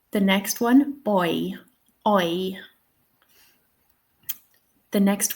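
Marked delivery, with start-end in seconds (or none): 1.0-2.5 put-on "boy", then its glide "oi" alone, in RP; RP diphthong. Shown as a demonstration. Teacher modelling RP for learners, "boy" and "oi" as one glide. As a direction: say "boy" and "oi" as the king would, in RP. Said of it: "How would the king say this?".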